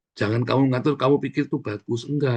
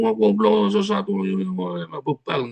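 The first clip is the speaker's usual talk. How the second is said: insulting rebuke; 9 semitones higher, slower than usual. Retold or imitated. Mock teacher scolding a student harshly, scornful and much higher. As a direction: spit out goblok with contempt. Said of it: "Kan nggak perlu begitu".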